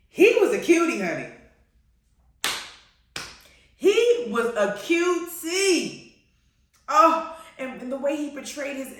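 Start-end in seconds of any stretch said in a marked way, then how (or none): 0.1-1.0 high, loud gush over a crush. Real, not acted. Fan swoons over King George actor, gushing. 3.8-6.2 high, very slow swoon; drawn-out gushing. Real, not acted. Fan repeats praise of King George actor, drawn-out gushing.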